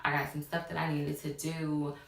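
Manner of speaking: low, measured excuse; retold smooth-talking, gently placating; finessing. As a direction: let them down easy, keeping it calm. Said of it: "I'm finessing".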